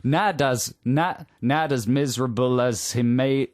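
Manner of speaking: faltering New York accent attempt. Host has a go himself, New York accent. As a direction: stumble through a phonetic New York line. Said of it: "sound like you're from New York".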